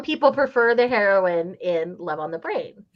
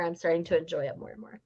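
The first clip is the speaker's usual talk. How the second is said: breathy whispered aside; 3 semitones lower, 8 dB quieter than usual. Real, not acted. Co-host whispering her enjoyment mid-chat. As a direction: whisper it almost to yourself. Quiet aside while others talk.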